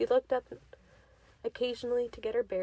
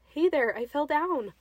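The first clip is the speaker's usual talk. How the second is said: calling out; 4 semitones higher, 6 dB louder than usual. A narrator's reading. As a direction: shout up to a lost companion. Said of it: "she called out".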